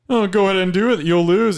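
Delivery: high, loud gloating villain. Acted. Villain taunting in skit.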